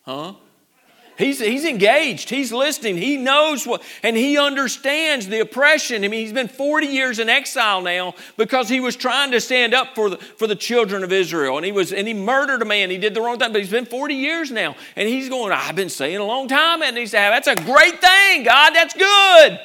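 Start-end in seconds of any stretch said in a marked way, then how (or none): 0.0-0.3 confused huh. Acted. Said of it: "he's not standing there going". 15.5-19.6 much higher and louder, gushing; preacher playing Moses overjoyed at the plan; excited Moses. Moses praising God's plan.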